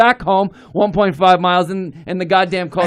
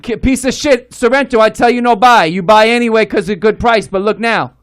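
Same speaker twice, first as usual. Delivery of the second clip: Chinese accent impression; 2 semitones higher, 4 dB louder than usual. Chinese mechanic scolding him about the Kia, Chinese accent. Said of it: "This is exactly how he talks".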